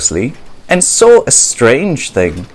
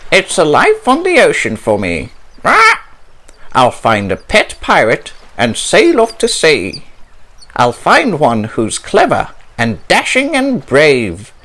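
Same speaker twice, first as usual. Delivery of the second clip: eager parrot voice, lightly raised; Polly the parrot; 2 semitones higher than usual. Acted. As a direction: dream aloud like a keen young parrot. Polly dreams of sea.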